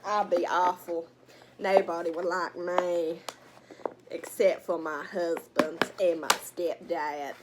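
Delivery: put-on white woman voice, slowing down; mock white woman. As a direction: keep playing the white woman, drawing it out. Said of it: "Imagine if I was a white woman".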